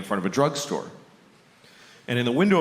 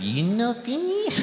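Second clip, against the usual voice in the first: put-on Japanese accent; 13 semitones higher, slower than usual. Waitress asking about the sushi, Japanese accent. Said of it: "She said".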